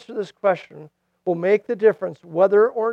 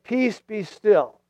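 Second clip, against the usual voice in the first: calm command; 2 semitones higher, much slower than usual. Retold or imitated. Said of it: "He said".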